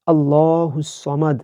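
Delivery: slow, with সমাদ kept short and with a heavy s sound; measured Quranic recitation; careful recitation. Shown as a demonstration. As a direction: recite আল্লাহুস সমাদ slowly. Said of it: "এখানে আমরা অনেকেই বলি".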